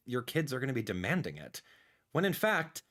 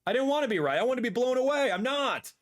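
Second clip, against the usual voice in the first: higher, louder exasperated cry; frustrated outburst; 10 semitones higher, 3 dB louder than usual. Real, not acted. Streamer to viewers about the Switch two prices, exasperated louder outburst. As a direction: let the disappointment burst out. Repeats the line, second louder.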